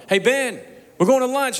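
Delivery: high, loud call across the lobby. Retold or imitated. Friends call Ben over to lunch, high and loud. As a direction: sing out to a friend to come along.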